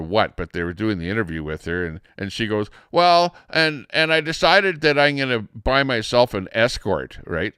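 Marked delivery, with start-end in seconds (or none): 2.9-7.2 lightly voiced interviewee, pitched up; imitating radio guest. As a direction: mimic her telling her story, a bit higher and louder. Retelling the guest's story.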